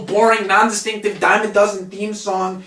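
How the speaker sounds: ordinary talk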